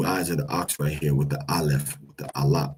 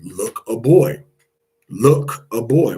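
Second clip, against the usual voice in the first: higher and louder, calling out joyfully; a mother proudly announcing her son; mother showing off her newborn, louder and higher; excited mother; 4 semitones higher, 8 dB louder, slower than usual. Retold or imitated. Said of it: "his mother said".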